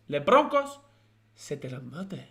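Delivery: put-on a silly Spanish accent over French words; mock Spanish accent. Repeating the viewer's French joke in a mock Spanish accent. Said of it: "I'm speaking Spanish now".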